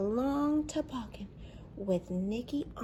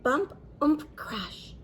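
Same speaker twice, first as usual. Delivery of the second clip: crash sound effects; 5 semitones higher, 6 dB louder than usual. Acted.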